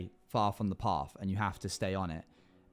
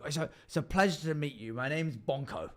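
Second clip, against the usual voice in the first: quick, chirpy goblin greeting; fast friendly goblin; 4 semitones higher than usual. Acted. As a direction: pump the hand like an eager goblin. Goblin introduces himself.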